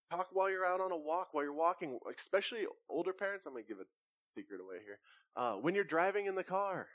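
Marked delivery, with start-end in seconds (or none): 3.4-5.0 confiding. Real, not acted. Pastor letting parents in on a secret, hushed. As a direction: drop the voice for a secret.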